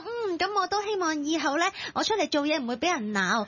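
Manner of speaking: high, lightly voiced little kid; imitated earnest child. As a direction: play a child making a solemn resolution. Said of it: "佢可能就會覺得". (扮細路仔高聲立志)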